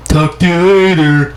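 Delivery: mock bitter goodbye; negative tone. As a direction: snap it out sarcastically. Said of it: "that negative kind of tone".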